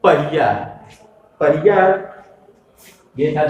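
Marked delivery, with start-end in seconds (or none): 0.0-0.5 पहिया with a short, quick i; quick short vowel. Shown as a demonstration. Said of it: "ई की मात्रा को जल्दी से कहा जा रहा है". 1.4-1.8 पहिया with a short, quick i; quick short vowel. Shown as a demonstration. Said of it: "ई की मात्रा को जल्दी से कहा जा रहा है".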